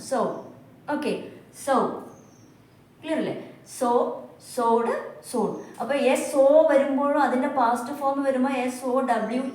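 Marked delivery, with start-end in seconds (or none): 0.1-1.8 "So" as one isolated, careful word; pronunciation model. Shown as a demonstration. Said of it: "pronunciation same ആണ്". 3.8-5.5 "So, sowed, sown" as separate, careful words; pronunciation model. Shown as a demonstration. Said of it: "pronunciation same ആണ്".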